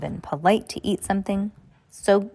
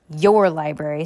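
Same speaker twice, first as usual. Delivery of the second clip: sharp; 3 semitones lower, 4 dB louder than usual. Acted. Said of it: "said the man sharply".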